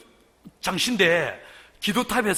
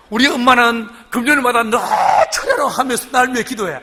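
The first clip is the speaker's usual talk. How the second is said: half-laughing mock whine, a bit louder; laughing complaint; 2 semitones higher, 4 dB louder than usual. Preacher mocking his own seminary grumble with a laugh. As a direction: retell the grievance through laughter. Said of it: "그래서 뭐라고 하냐면".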